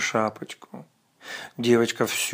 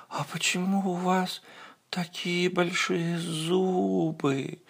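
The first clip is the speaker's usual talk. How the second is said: put-on much higher, wondering child; little girl voice; 6 semitones higher, 6 dB quieter, slower than usual. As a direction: ask like a puzzled little girl. Girl questions the wolf.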